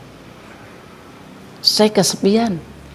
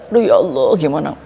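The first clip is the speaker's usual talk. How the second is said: mother's alarm; 7 semitones higher than usual. Retold or imitated. Mother's panicked reaction.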